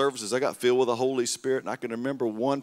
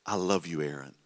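tender voice of God; 5 semitones lower than usual. Retold or imitated. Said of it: "the Lord just spoke that over me".

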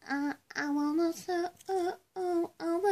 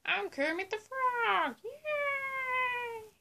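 a hint of a chirpy frog puppet; lightly voiced puppet frog, cheerful; Kermit the Frog. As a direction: cheer like a happy puppet host. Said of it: "I'm going to do Kermit the Frog".

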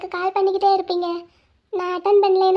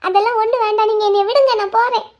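desperate plea; 4 dB louder than usual. Acted. She struggles to leave.

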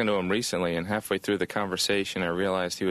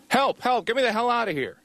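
mock poem recital. Comic recites his teen poem as a high yelp. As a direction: deliver the poem as a desperate plea. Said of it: "Here's one of the poems I wrote".

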